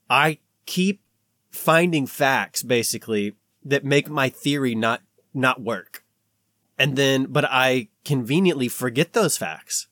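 slow, deliberate retelling with pauses; measured, emphatic quote of Darwin's confession. Retold or imitated. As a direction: spell it out slowly, phrase by phrase. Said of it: "we should say that slower".

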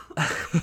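sputtering cough on a drink; choking on tea. Real, not acted. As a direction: choke as it goes down wrong. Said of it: "tea went down the wrong pipe".

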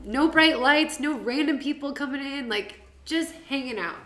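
high, loud, laughing vlogger chirp; excited high social media host voice; influencer voice. Retold or imitated. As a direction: ham up a bubbly story post. Replaying her Insta story.

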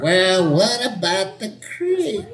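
put-on a young person doing an old lady, slowly; very old faint voice. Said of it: "young person doing an old person voice".

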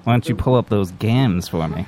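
put-on old-timey transatlantic accent; hammed-up Teddy Roosevelt flirting. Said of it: "use my transatlantic ac-, accent".

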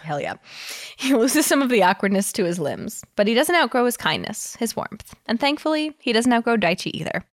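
reading a story aloud; cozy fanfic reading voice; story narration. Acted.

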